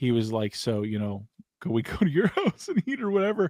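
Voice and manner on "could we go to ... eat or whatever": teasing, playful, laughing, sing-song delivery. Retelling what a buddy said to a woman on the street, imitating a laughing, playful ask. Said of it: "kind of in a laughing, playful way".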